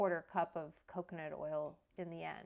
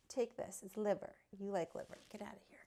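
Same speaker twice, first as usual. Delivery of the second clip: whispered to the dog; 6 dB quieter, faster than usual. Real, not acted.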